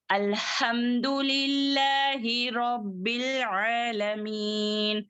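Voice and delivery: slow, level-toned verse with elongated vowels; Quran recitation. Shown as a demonstration. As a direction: recite measuredly, holding the long syllables.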